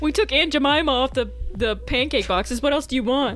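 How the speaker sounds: mocking dim, oblivious, clueless voice. Speaker mocks responses to calls for change, doing an impression of dumb white people. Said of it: "That was my impression of those dumb white people".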